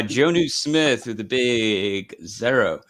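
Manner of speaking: slow Baltimore accent on the name. Real, not acted. Host reading out player scores, Baltimore accent. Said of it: "I just said it in a Baltimore accent".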